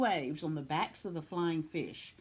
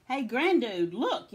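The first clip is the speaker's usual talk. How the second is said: high, loud alarmed yell; 5 semitones higher, 6 dB louder than usual. A narrator's reading. Lucy spots snow through telescope, yelling. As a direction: yell to point out danger. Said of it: "yelled Lucy".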